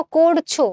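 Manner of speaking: করছো with a purely oral vowel; no nasalisation. Shown as a demonstration. Teacher contrasting for students, করছো entirely without nasality. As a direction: say করছো with no sound through the nose. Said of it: "নাকের কোনো ব্যবহার নাই".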